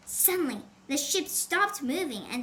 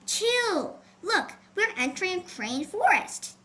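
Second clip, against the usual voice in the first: grinning; 5 semitones higher than usual. Acted.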